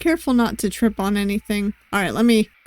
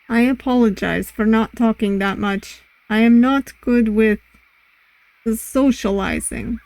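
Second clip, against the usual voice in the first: put-on amateur Russian accent; lightly put-on Russian accent. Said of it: "my, um, amateur Russian accent".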